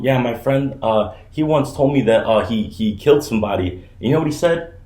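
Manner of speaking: deadpan, no emotion at all; monotone Theo Von. Retold or imitated. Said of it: "It's just very monotone".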